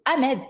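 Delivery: Ahmed said "Amed", no H sound; silent H. Retold or imitated. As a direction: drop the H at the start of Ahmed. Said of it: "on ne prononce pas le H".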